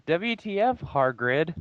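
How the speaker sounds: high, hammed-up angry yell; shouted angrily. Reading fanfic aloud to friends, a mock angry shout. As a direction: play the cross heroine yelling at Hargrid, half mocking. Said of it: "I shouted angrily".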